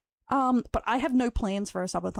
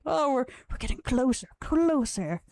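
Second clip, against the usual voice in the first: amused encouragement; 5 semitones higher than usual. Retold or imitated. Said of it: "I was like".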